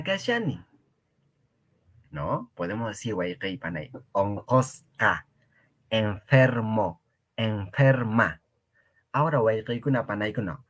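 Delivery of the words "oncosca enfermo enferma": slow teaching. Shown as a demonstration. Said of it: "yo estoy exagerando".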